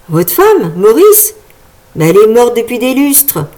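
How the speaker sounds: put-on boy shouting. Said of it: "s'écria le plus petit".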